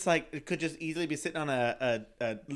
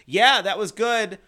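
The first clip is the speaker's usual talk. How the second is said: offhand judge praise; 5 semitones higher, 8 dB louder than usual. Retold or imitated. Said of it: "other queens were just like".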